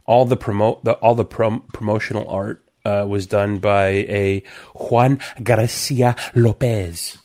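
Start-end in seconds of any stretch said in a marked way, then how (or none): 4.7-7.2 slow, smooth radio announcer read; radio guy voice. Real, not acted. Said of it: "turn into your radio guy voice there".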